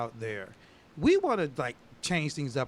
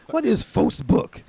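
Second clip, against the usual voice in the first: mock confusion; 9 semitones higher, 8 dB louder, slower than usual. Mock puzzled question.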